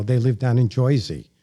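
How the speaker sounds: put-on "Joisey" in old Jersey style; lightly mocked Jersey accent; New Jersey accent. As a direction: imitate a New Jersey local. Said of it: "cousins in New Jersey have a discrete".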